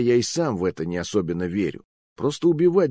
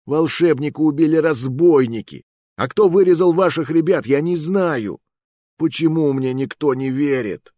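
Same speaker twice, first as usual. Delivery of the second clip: high, louder desperate outburst; exasperated protest; 7 semitones higher, 5 dB louder than usual. Acted. Accused hero protests to the officer, exasperated and louder. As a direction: plead your innocence, fed up.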